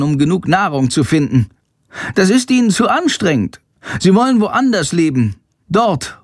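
a small bat bursting with news; bat Chandor. Acted.

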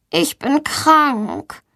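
put-on high, slow, drawn-out sickly child; suffering voice. A narrator's reading. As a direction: groan it out as if ill. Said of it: "mit leidender Stimme". (mit leidender Stimme)

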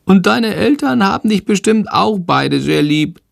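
small creature, pitched well up, reassuring; a little dragon comforting the boy. Acted. Shandor reassuring Jendrik under the blanket, high and kind.

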